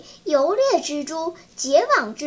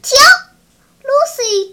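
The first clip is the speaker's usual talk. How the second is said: glaring; 9 semitones higher, 10 dB louder than usual. A narrator's reading. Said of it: "Lucy瞪着眼睛说".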